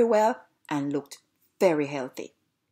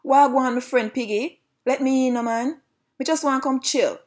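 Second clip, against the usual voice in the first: high, lively call to a friend; 6 semitones higher, 4 dB louder than usual. Acted. Dog calling through the sticks to second piggy, calling out. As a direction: call out high, opening loud. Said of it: "called out to him".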